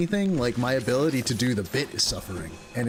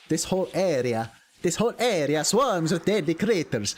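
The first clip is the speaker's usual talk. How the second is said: attempted British accent. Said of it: "inner city British accent or something".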